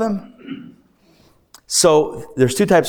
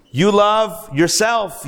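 calmer retake; 5 semitones higher, 4 dB louder, slower than usual. Shown as a demonstration. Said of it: "maybe he didn't say it so angrily".

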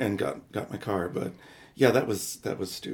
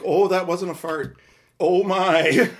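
higher, louder shocked exclamation breaking into a laugh; retold shock; 5 semitones higher, 9 dB louder, slower than usual. Realizing the accident in Whole Foods, shocked and laughing. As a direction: gasp it out half laughing.

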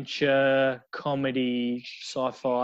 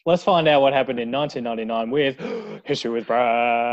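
big announcer build to the segment; with feeling; 3 dB louder than usual. Shown as a demonstration. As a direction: announce it with gusto. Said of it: "This time with feeling".

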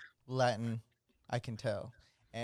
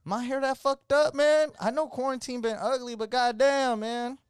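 exasperated inner voice; 6 semitones higher than usual. Retold or imitated. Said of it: "later I started thinking".

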